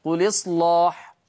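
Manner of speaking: قل إصلاح read as qulislaḥ, the hamza dropped and its vowel carried onto the lam; recited with naql. Shown as a demonstration. Teacher demonstrates naql to beginners, slow careful recitation. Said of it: "بشيل الهمزة وانقل الحركة للساكن قبلها".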